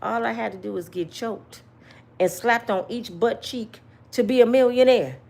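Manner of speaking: lightly voiced incredulous TV judge; a hint of a courtroom judge scolding; mild judge-show disbelief; Judge Joe Brown voice. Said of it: "in my Judge Joe Brown voice".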